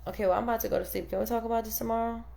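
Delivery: fast, brushing-off guy voice; rushed sleepy husband. Retold or imitated. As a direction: rattle it off to end the talk. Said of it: "the guys are like".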